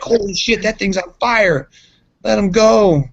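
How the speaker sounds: high-pitched panicked retold "let him go"; alarmed shouting. Retelling the guys dragging Brian seeing the fire, high alarm. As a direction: act out the guys backing off in a panic. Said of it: "they were just like".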